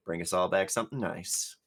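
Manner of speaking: deadpan military monotone; flat soldier's voice, no emotion; dry military voice. Acted. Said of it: "in that very dry military voice".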